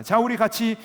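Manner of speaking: high, loud and upbeat song leader; cheerful worship leader. Retold or imitated. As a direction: hype the crowd into praise. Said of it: "찬양을 시작하는". (신나게 찬양을 시작하는 간사 목소리)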